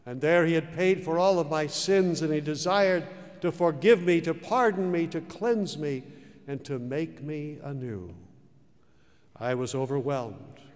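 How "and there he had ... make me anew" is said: louder, higher pleading list; fervent preaching. Acted. Preacher describing God's forgiveness, fervent and loud. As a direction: pour it out with fervor. Rising sermon fervor.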